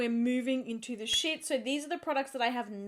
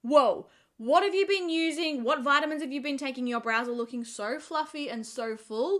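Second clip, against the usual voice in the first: mock gushing friends, louder and slowed down; amazed compliment; 3 semitones higher, 6 dB louder than usual. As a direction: gush over the brows like an amazed friend. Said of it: "so many people are like".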